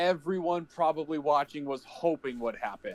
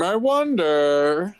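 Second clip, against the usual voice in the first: teasing; 6 dB louder, much slower than usual. Pretend. Teasing which film wins.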